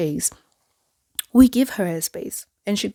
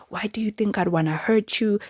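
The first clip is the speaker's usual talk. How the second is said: hushed, whispered mock of a tearful mother; lightly voiced mother playing the victim, whispered; imitating crying mother; 3 semitones higher than usual. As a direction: breathe it like a wounded victim.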